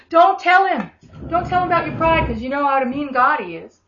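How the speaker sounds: the devil mockingly whispering lies; lightly voiced tempting enemy; mock enemy voice.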